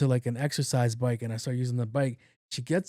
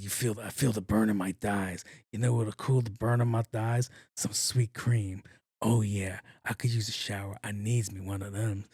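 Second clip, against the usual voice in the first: mock sultry movie voice; 4 semitones lower than usual. Acting sexual at the gym to drive her away, low hammed-up seductive voice. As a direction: lay on a cheesy sexy voice to scare her off. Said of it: "What movie is that from?".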